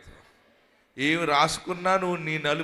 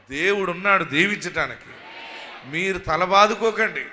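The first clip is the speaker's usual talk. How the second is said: preaching shout; 2 semitones higher, 6 dB louder than usual. Acted. Loud preaching exhortation.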